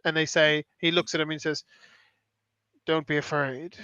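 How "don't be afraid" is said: soft, grave comforting; serious reassurance. Retold or imitated. Looking at a dying man, serious quiet reassurance. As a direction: reassure gently without giving false hope. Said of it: "it's this serious moment".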